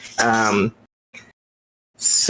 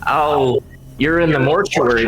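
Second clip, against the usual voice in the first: nasally skull voice; 2 semitones higher than usual. Acted.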